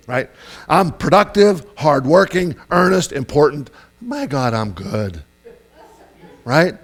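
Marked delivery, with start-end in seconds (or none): 0.7-3.7 louder, emphatic self-praise; acted smug boasting; mock self-importance. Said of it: "here's what we tend to think". 4.0-5.2 acted self-satisfaction; mock self-admiration. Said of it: "here's what we tend to think".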